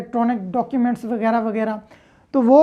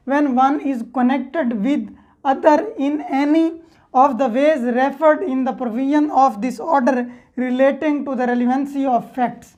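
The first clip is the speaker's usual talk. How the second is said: slow dictation of law text; much slower than usual. Shown as a demonstration. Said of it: "reads the law text aloud".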